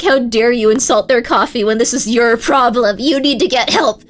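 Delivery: half-hammed retold rant; mock outrage. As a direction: lecture him about coffee like it's a moral crime. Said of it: "I was so pissed off about that".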